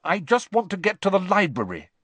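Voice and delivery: talking through a mouthful of food; words muffled by a full mouth. A narrator's reading. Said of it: "with her mouth bulging with sprouts".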